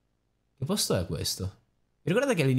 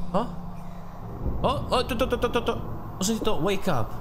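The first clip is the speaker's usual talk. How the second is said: high startled yelps; 12 semitones higher than usual. Real, not acted. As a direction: jump at a sudden sound. Startled by doll's voice. (sorpreso e spaventato)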